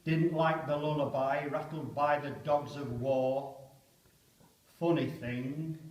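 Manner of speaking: poem reading. Acted. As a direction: muse on the star before the attack. Poem recited aloud.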